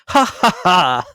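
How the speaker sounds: loud, high jolly laughter; booming festive laugh; hearty laugh. A narrator's reading. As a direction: laugh out big like a merry young man. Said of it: "laughed Scrooge's nephew".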